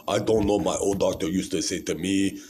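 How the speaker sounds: imitating a doctor's African accent; mock African accent. Patient mimicking his old doctor for viewers, mock African accent. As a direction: put on a rough African accent. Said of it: "he has this African accent".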